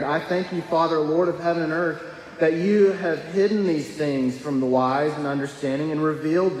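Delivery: lifted, solemn reading voice; scripture reading. Acted. Pastor reading Matthew to the congregation, solemn.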